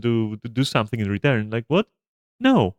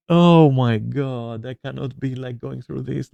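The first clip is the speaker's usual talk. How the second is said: exasperated. Retold or imitated. Retelling own exasperated inner reaction.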